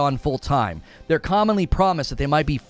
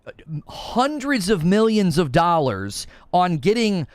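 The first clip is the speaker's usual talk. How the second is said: exasperated rant; 4 semitones higher than usual. Retold or imitated. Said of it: "I'm like".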